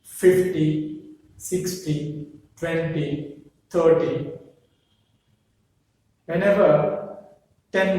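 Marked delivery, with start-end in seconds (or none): 0.0-4.3 "Fifty, sixty, twenty, thirty", each hit on its first syllable; first-syllable stress. Shown as a demonstration. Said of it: "the stress falls on the first syllable".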